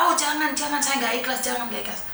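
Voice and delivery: fading, whiny mimic of a refusing mourner; mimicking the maid refusing to let go, fading whimper; mock whimper. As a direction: imitate her pleading, dying away. Mimicking the grieving maid's refusal.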